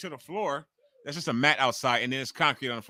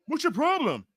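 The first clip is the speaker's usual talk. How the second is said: mocking the troll; 12 semitones higher than usual. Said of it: "So now he inboxed me".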